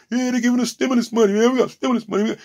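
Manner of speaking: high, giddy mock celebration; mock excited bragging; mocking gleeful people. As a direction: play the fool bragging about free money. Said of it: "y'all was running around talking about".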